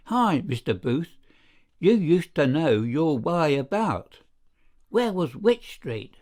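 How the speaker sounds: a lightly voiced nagging woman, rising to a high pitch; high nasal whine. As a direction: wheedle the landlord in a mild whine. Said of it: "Missus Dawes' high nasal whine broke in".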